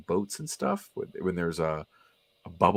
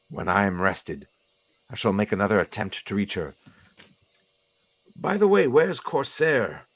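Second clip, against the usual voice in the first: lightly voiced formal professor; a measured, faintly reproving professor with pauses between phrases; weary professor. Professor reporting an ambush to his teammate, lightly voiced and weary.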